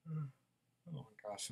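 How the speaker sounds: talking through a real yawn; stifle a yawn as you speak. Real, not acted. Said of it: "I'm yawning".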